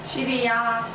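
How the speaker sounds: talking to voice assistant. Real, not acted. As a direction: speak clearly and slowly to the phone. Speaking to Siri.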